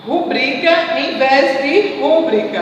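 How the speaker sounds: rubrica stressed on bri, rúbrica stressed on rú; stress contrast. Shown as a demonstration. Teacher contrasting the two stresses of rubrica for the class. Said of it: "É uma prosódia".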